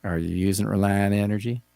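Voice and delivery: a lightly voiced laid-back Texan pitchman; a hint of a cool movie-star ad read; Matthew McConaughey. Host imagining the actor's energy commercial, mild impression. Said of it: "I keep wanting him to go".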